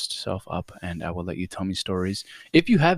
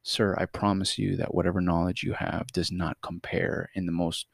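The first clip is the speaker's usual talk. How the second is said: mock formal. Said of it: "I felt like telling him".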